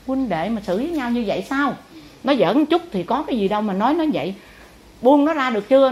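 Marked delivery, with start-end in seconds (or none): 5.0-5.9 louder, higher stern order; a stern teacher scolding her pupil; stern demand. Retold or imitated. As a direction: demand she let him go.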